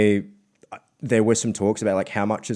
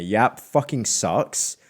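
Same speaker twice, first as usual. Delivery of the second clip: mock angry caller; slower than usual. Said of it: "just swearing at me".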